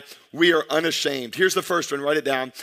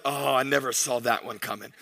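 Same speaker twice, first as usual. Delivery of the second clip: mock surprised God; 7 semitones lower, 7 dB quieter than usual. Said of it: "it's like".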